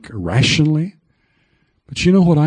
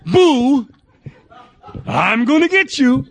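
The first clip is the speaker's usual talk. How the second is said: much higher, laughing fake spooky threat; playful mock scare; 12 semitones higher than usual. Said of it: "You know".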